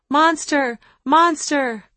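high, loud cry of fake fear; gleeful mock scream. A narrator's reading. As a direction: shriek it like kids thrilled by a pretend monster. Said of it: "shrieked with joy and fake fear".

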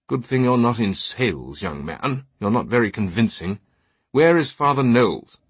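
lightly voiced disdainful British knight; highbrow British accent. Knight frowning at the altar boy, highbrow British accent. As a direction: put him down in mild upper-crust British. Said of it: "his accent a highbrow Saxonesque British".

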